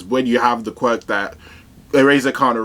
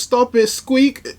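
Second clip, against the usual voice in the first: high, slow squeaky plea; squeaky mouse lady; 14 semitones higher, slower than usual. Retold or imitated. Mouse woman scolding her friend, squeaky and high. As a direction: mouse girl begging in a tiny squeak. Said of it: "she goes".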